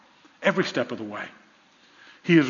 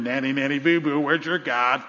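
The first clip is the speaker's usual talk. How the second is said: mild playground taunt, kept low-key; imitated mocking jeer; 3 semitones lower than usual. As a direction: tease them like a kid in a schoolyard. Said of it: "began to taunt them".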